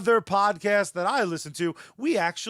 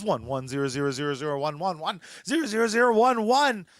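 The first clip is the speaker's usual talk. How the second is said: robot voice; 3 semitones lower, much faster than usual. Pretend. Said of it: "You just came across as".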